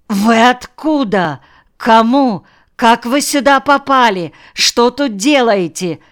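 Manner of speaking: high-pitched flustered outrage; indignant rattling. A narrator's reading. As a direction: fire off startled, indignant questions. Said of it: "затараторил возмущённый директор".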